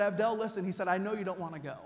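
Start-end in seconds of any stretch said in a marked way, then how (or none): 0.0-0.6 serious. Retold or imitated. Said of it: "it got real serious". 0.9-1.8 serious. Retold or imitated. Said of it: "it got real serious".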